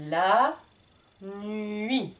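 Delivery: "nuit" ending on the vowel, no final T; silent T. Shown as a demonstration. Teacher shows the silent T in nuit. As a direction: leave the T of "nuit" unsounded. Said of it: "le T est muet".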